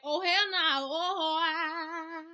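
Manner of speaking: loud, high mock outrage; retold outburst. Storyteller acting out her shocked reaction, loud mock outrage. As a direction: wail it out in exaggerated disbelief.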